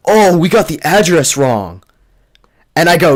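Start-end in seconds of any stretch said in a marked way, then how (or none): 0.1-1.8 sheepish whispered excuse. Retold or imitated. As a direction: mumble the lame excuse in a whisper. Friends' lame excuse, retold.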